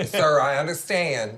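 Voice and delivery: a hint of a weary gate agent; TSA lady impression. TSA agent telling a passenger no seats left, lightly voiced. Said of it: "this little old lady that works at T S A".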